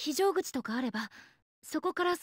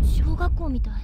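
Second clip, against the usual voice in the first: loud; 11 dB louder than usual. Acted. Realizing the room is an elementary school.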